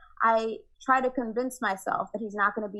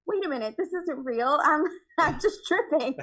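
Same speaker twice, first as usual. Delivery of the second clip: amused realization; 5 semitones higher than usual. Retold or imitated. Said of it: "I was like".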